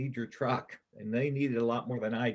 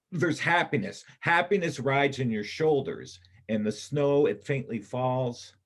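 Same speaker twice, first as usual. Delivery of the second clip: rising, louder, carried away by the picture; swelling with feeling; 3 semitones higher, 6 dB louder than usual. Acted. Kip paints the scene for Iris, swelling with feeling. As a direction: let the vision lift you, voice swelling.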